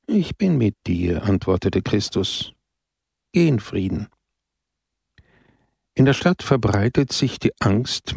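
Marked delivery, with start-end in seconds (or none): 0.1-4.1 understated tender blessing; gentle reassurance. Acted. Christ answers gently.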